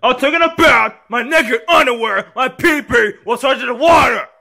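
high-pitched whining yell; screaming tantrum. Acted. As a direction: rant in a high voice, breaking into screams. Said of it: "Stop screaming!".

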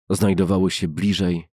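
plain reading voice

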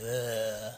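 long groan of taking a punch; imitated movie-boxer grunt; Sylvester Stallone groan. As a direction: groan as if slowly absorbing a hit. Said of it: "Sylvester Stallone gets hit. Remember, he goes".

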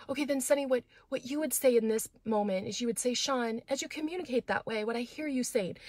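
mock the marriage counselor's gentle coaching; little counselor tone. Imitating the marriage counselor coaching Sonny in a little tone. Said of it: "in that little tone".

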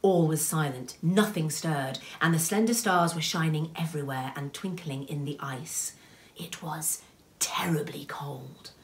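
measured, hushed-ending storyteller; story narration. A narrator's reading. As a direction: read the wintry tale with lingering words. Reads a story aloud.

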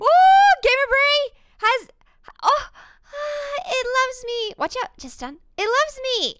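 high cooing over a pet. Real, not acted. Gushing to her friend over a new hamster, high cooing.

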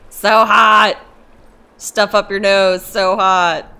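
yelping loud, half laughing; loud exclaim. Real, not acted. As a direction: blurt it out, mouth burning. Reacting to something burning hot.

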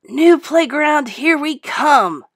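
high, slow, loud cheer. A narrator's reading. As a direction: cheer it out like a happy kid. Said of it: "cheered Alex".

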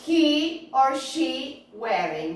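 slow, spaced-out question with a rising end; model for repetition. Shown as a demonstration. Teacher models the question for repetition, slowly. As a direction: say it slowly for learners to copy.

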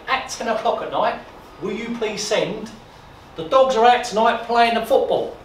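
slow, loud coded message; radio announcer. Retold or imitated. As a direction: read it out like a broadcast. BBC coded broadcast voiced.

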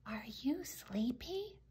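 slow, soft whispered question; whispering. A narrator's reading. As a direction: whisper it slowly across the bedroom. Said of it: "Mick whispered".

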